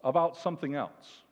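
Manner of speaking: a sudden leap up in pitch on "Good news"; exclaiming good news. Retold or imitated. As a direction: announce it as joyful surprise. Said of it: "Mark and he says".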